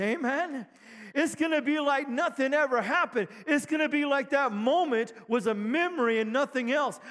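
rising, fervent preacher's build; preaching at full force. Real, not acted. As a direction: preach it home to the church. Pastor preaching to congregation.

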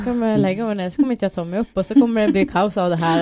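mock-anxious inner monologue building up; quick, mounting worst-case fretting; retold worrying. Retold worst-case thoughts before running.

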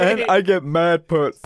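loud, slow laughing mock boast; drawn-out taunt through laughter; retold yelling. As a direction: imitate a man bragging at kids. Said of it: "he starts yelling at and getting into it with kids".

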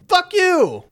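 sudden loud high yell; angry shout. Retold or imitated. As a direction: spit it back at him. Christine slams the door on headmaster.

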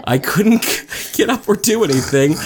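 laughing while telling. Real, not acted. Laughing at own misfortune story.

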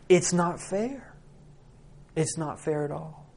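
indignation fading into quiet hurt; wronged son losing steam; aggrieved protest. Acted. Angry son's protest subsiding.

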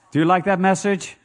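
ordinary talk, nothing marked

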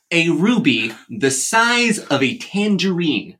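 Michael Caine accent. Shown as a demonstration. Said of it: "your best impression of Michael Caine saying".

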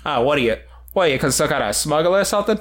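Boston tough-guy put-on; mock Boston accent. Co-host accusing a stranger of smuggling, mock Boston accent. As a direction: needle them in fake Boston.

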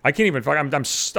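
slurred words; tongue tripping over the words; slurring. Real, not acted. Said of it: "I'm slurring my fucking words".

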